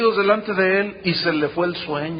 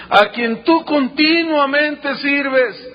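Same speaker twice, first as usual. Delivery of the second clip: raised, pleading call, drawn out at first; mournful calling out; 5 semitones higher, slower than usual. Acted. Anguished king asking if God saved Daniel, sorrowful calling voice. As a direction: cry the question out with mild anguish. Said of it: "llamó a voces a Daniel con voz triste".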